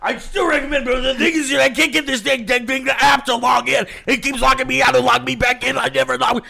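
mock yelling reviewer. Imitating angry reviewer yelling.

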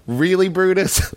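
a mildly mocking, let-down question; incredulous Caesar. Caesar to the friend who stabs him, incredulous. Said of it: "that's basically like".

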